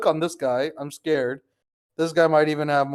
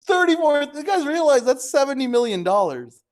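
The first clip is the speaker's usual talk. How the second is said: amazed; 10 semitones higher than usual. Real, not acted. Realizing the sum lost.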